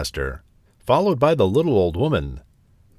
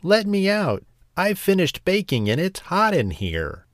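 high-pitched little voice calling to be let out; strange voice calling out; 9 semitones higher than usual. A narrator's reading. Gingerbread man calls from inside the oven, high-pitched calling out. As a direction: call out, pitched well above the narration. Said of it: "a strange voice calling out".

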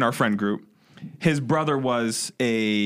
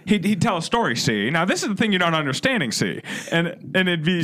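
put-on higher, old-movie New York gangster accent; 1940s gangster accent; 5 semitones higher than usual. Imitating the ex-con's put-on gangster accent. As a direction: talk like a forties mobster, see. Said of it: "he started talking with an accent".

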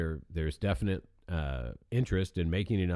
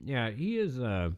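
mouth full; 5 semitones higher, slower than usual. Real, not acted. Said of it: "I'm eating in the mic now".

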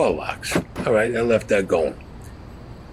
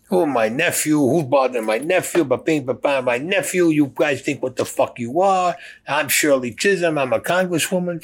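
high, indignant auntie voice defending her nephew; Shirley Chisholm; 6 semitones higher than usual. Retold or imitated. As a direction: squeal it up like an outraged aunt. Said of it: "Shirley Chisholm comes down".

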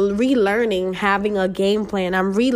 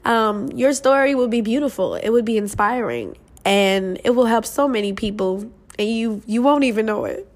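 getting emotional. Real, not acted. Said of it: "I'm trying not to get emotional".

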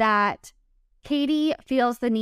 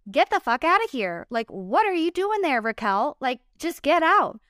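exasperated outburst; 4 semitones higher than usual. Real, not acted. Host exasperated at Raquel showing up.

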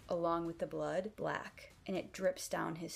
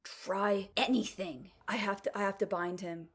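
strained growl; 3 semitones higher, 5 dB louder than usual. Acted. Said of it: "Adam manages to growl out".

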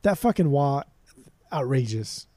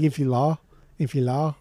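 put-on tentative try at a French accent. Working out the French pronunciation, tentative French accent. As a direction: test the word in amateur French. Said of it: "how would a French person say".

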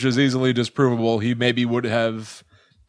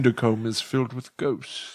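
put-on British accent; 2 semitones lower, 6 dB quieter than usual. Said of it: "That's British".

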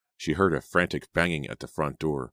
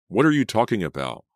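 indignant, louder and higher; exploding; 6 semitones higher, 6 dB louder than usual. A narrator's reading. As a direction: burst out in disbelief. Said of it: "Jake exploded".

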